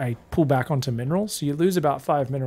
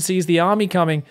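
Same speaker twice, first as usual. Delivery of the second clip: usual speaking voice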